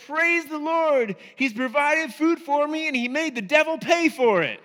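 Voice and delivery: triumphant laughing praise. Retold or imitated. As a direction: crow it with a laugh. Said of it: "she said".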